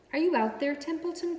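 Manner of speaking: high, loud call across the barn. A narrator's reading. Pig calling out for the rat in the rain, loud and high. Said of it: "called Wilbur".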